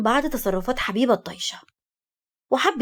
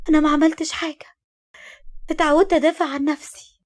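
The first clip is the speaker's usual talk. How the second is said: higher-pitched, tearful self-defense; tearful protest; 6 semitones higher than usual. A narrator's reading. Woman defending herself to Hashem, tearfully. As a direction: plead innocence through tears. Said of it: "بصت له بدموع وقالت".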